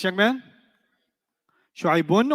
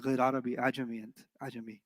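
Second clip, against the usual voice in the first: troll answer; 5 semitones lower, 10 dB quieter, much faster than usual. Retold or imitated. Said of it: "I was like".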